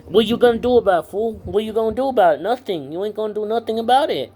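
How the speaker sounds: fast, high, loud challenge; angry taunt. Real, not acted. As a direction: dare him, fast and loud. Taunting the therapist.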